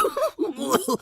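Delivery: high-pitched mocking laugh. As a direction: laugh at the new shoe polisher. Laughter after ordering shoe polishing. (ऊंची आवाज़ में हंसी)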